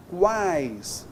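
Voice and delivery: "Quais" said as one long falling syllable; single pulse. Shown as a demonstration. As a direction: keep all three sounds of "Quais" in a single push. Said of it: "só uma pulsão aqui".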